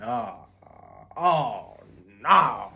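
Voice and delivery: put-on a kid who knows he's in trouble; panicked cry. I'm like.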